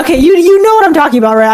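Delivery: rushing out of embarrassment; flustered rush. Real, not acted. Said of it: "I'm gonna stop embarrassing myself".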